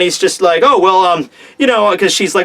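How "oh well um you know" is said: hesitant, mock-stammering start; flustered stammer. A flustered suitor fumbling for an answer, mock stammer. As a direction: imitate a flustered man stalling for words. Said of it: "he goes on to stammer again".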